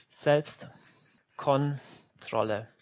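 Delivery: very slow, syllable by syllable; überdeutlich langsam. Real, not acted. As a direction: break the word up with long gaps. Word pronounced syllable by syllable. (überdeutlich, Silbe für Silbe)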